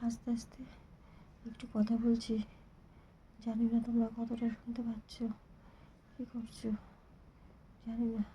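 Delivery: speaking low, half whispered; real soft low talk. Real, not acted. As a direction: keep it down so no one overhears. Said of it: "তাই নিচু হয়ে".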